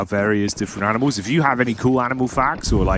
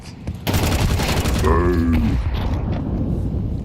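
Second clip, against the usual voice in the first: camel grumble; 6 semitones lower than usual. Pretend. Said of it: "quite a heavy metal cow".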